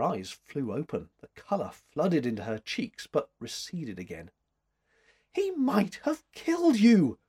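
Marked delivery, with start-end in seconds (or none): 5.3-7.2 high, raised-voice alarm; exclaiming. A narrator's reading. Woman realising her rescuer's danger, exclaiming. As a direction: cry out in alarm for him. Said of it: "she exclaimed".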